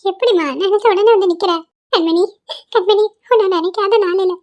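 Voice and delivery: overwhelmed grandmother weeping with joy; tearful joy. Acted. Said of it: "பாட்டி அழுவாத பாட்டி".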